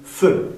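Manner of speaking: "Feu" with a tight rounded eu; short "Feu", rounded closed vowel. Shown as a demonstration. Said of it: "pero más cerradito".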